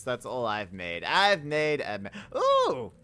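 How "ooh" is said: high loud ooh; delighted surprise. Real, not acted. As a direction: squeal with delight. Finds netherite.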